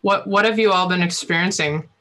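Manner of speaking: talking round a cough drop; mouth full. Real, not acted. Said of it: "I have a cough drop in my mouth".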